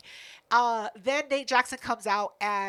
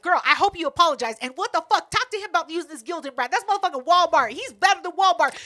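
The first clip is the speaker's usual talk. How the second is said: raised, forceful complaining; trash-talking rant; 4 semitones higher, 6 dB louder, faster than usual. Retold or imitated. Customer griping to Keela about the merch, trash-talking. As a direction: lay into them, loud and aggrieved. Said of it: "I'm talking mad shit".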